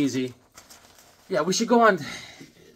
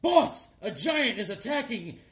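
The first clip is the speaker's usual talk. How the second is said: higher, slow urgent announcement; mock newsman alerting the boss; reporter; 5 semitones higher, slower than usual. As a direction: draw out the big scoop. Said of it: "He's like a, a reporter".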